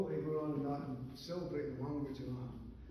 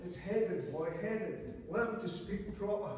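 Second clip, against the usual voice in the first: stern teacher; 3 semitones higher, slower than usual. Acted. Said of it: "for Mick to his teacher".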